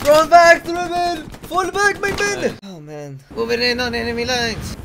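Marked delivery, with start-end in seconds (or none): 0.1-2.6 high loud retreat command; shouted orders. Acted.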